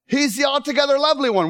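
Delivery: a hint of an elderly missionary speaking to the students; tender old missionary. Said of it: "first thing she said was".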